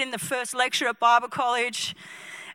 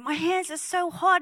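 amazed; 4 semitones higher, 6 dB quieter than usual. Acted. Voicing healed pianist's amazement.

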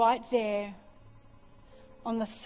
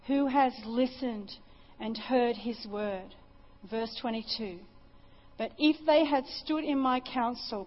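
scripture reading. Acted.

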